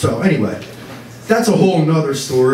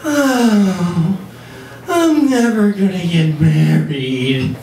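mimicking girlfriend; 2 semitones higher, much slower than usual. Boyfriend imitating girlfriend's wedding hint, mock-wistful. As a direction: drop a hint with a dramatic sigh. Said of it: "She'll go like".

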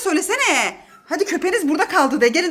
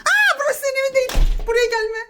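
talking to the dog; 7 semitones higher than usual. Real, not acted.

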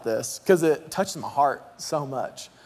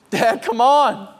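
put-on raised, drawn-out kid's plea; child calling out; 5 semitones higher, 5 dB louder, slower than usual. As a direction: slowly call your father over, louder and higher. Acted child calling to his father.

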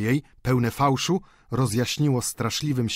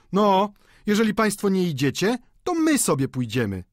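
mild raised call, starting high; 9 semitones higher, 3 dB louder than usual. A narrator's reading. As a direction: announce it to the whole room. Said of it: "zawołał Bianchon". (lekko podniesiony głos, wołanie)

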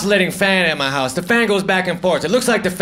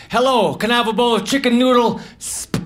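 put-on Southern accent, a touch higher; mock Southern talk; 4 semitones higher than usual. Ordering soup in the South, mock Southern accent. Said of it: "I try to talk like that".

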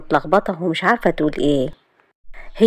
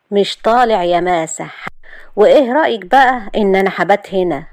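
cold; 3 semitones higher than usual. Acted. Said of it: "وراح قال ببرود".

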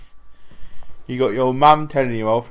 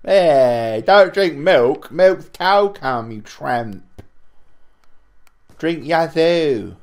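mock lecture; 3 semitones higher, 4 dB louder, much slower than usual. Mock lecturing a friend about milk.

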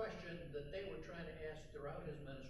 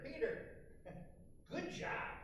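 higher, laughing, fond teasing; amused Jesus; 8 semitones higher, slower than usual. Retold or imitated. Jesus teasing Peter afterward, fondly laughing. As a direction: chuckle and tease him gently. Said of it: "Jesus was probably saying later".

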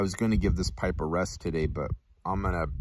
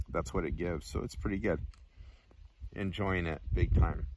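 talking around pipe stem; speaking while smoking pipe; pipe in mouth; 5 dB quieter than usual. Real, not acted. Seen 0: Pipe stem held in mouth, smoke exhaled; removed at 5.0s.

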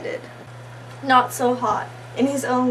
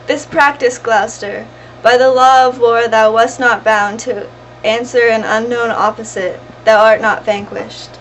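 forceful, raised-voice objection; loud protest; 7 dB louder than usual. Acted. Lady tells the beaten man the fight was unlawful, loud protest. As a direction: protest loudly over the fallen man. Goneril protests over fallen Edmund.

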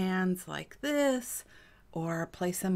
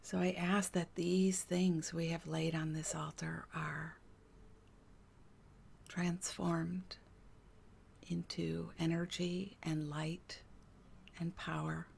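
quiet, measured prayer with long pauses; guided prayer meditation; 3 dB quieter than usual. Real, not acted. Healer asks that burdens become light, guided prayer. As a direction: let each phrase settle before the next.

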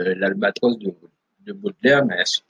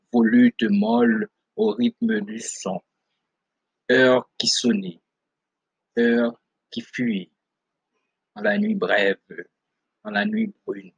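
measured poetry reading, pausing after each phrase; solemn literary read-aloud; poem recitation. Acted. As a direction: recite verse phrase by phrase, with weight.

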